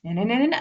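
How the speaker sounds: "No, no, no, no, no" lilting upward to the end; rising pattern. Shown as a demonstration. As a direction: let "No, no, no, no, no" climb like a question. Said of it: "every sentence goes up".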